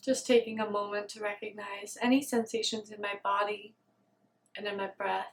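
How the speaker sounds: quiet meditation voice with long pauses; guided meditation. Real, not acted. Meditator noticing body, breath and soothing warmth, guided meditation. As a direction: settle into stillness, leaving space between phrases.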